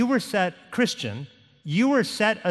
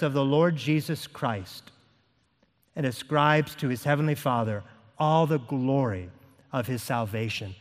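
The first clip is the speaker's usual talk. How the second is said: measured reading in a lowered voice; deliberate, settling lower at phrase ends; slow reading; 3 semitones lower than usual. Real, not acted. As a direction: read slowly, pausing after each phrase. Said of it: "I'm gonna read it slowly".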